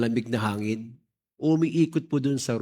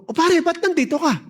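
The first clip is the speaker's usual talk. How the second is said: nagulat; 13 semitones higher than usual. Retold or imitated. Retelling surprise at friend's visit.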